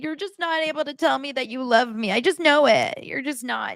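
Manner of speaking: put-on high, pleading girlfriend whine; whiny Annie. Mocking Annie begging Nick to say he loves her, high whine. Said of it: "And it's like".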